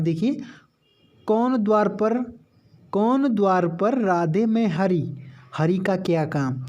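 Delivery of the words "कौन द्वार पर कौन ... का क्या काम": slow, measured verse reading; poem recitation. Shown as a demonstration. Teacher recites a verse example to students, slow and measured. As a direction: recite the couplet slowly, savouring each phrase.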